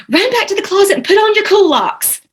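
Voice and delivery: mock grandma hurry-up whisper. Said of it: "I remember one day she saying".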